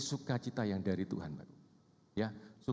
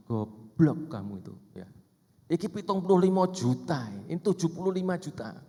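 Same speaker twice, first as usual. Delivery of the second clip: furious husband; 5 semitones higher, 5 dB louder than usual. Retold or imitated. Husband berating his wife over the money, furious.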